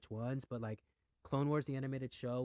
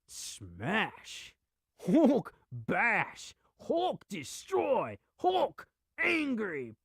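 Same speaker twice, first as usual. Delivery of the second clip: higher, louder caveman Hulk rant; 9 semitones higher, 7 dB louder, much slower than usual. Retold or imitated. Fan gushing about the Hulk, doing a loud Hulk voice. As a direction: growl it out like the Hulk. Imitating the Hulk's speech.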